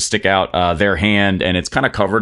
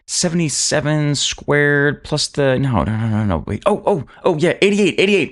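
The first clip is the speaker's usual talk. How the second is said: muttering quartermaster; 7 semitones higher than usual. Acted. Quartermaster doing sums aloud.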